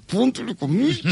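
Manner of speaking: high put-on warning; hammed-up officials scolding the singer; mock authorities. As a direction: call it out in a squeaky official voice. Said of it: "le decían a un cantante".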